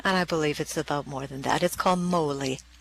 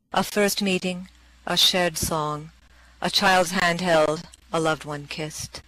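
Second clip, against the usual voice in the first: poem reading. Acted. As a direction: read it like a keepsake memory. Reads the poem Pearls.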